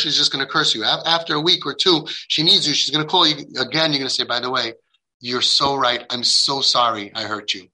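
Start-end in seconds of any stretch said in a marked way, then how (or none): 4.2-7.7 gently acted, understated apology; humble apology. Parent apologizing to hurt daughter, gentle humble tone. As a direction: model a tender, sincere sorry.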